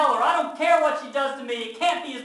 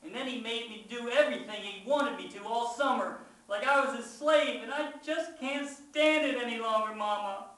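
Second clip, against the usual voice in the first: loud, high, desperate outburst; yelled confession; 10 semitones higher, 8 dB louder than usual. A narrator's reading. Child confesses whole story to Mama, yelled outburst. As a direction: pour it all out at a yell. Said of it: "can't help it. I yell out".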